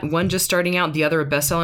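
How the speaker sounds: lightly imitating the other show's intro; quoting the podcast. Teasing quote of another podcast's intro line, lightly imitated. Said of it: "every time I hear that".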